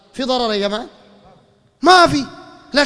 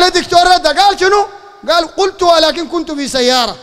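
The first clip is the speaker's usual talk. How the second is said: mocking quote; 5 semitones higher than usual. Mocking the opponents' excuse.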